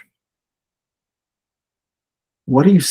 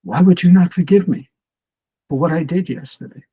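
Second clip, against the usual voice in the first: father pleads, higher and louder, hurt; a touch of the upset father, pleading higher, then rushing on; 6 semitones higher, 4 dB louder, faster than usual. Retold or imitated. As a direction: ask it like a wounded father begging. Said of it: "The man says".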